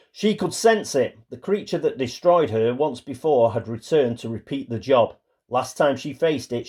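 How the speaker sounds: measured storybook reading, falling away at the end; story narration. A narrator's reading. Player reading Agnes's personal story card, narrating. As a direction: read it out like a tale.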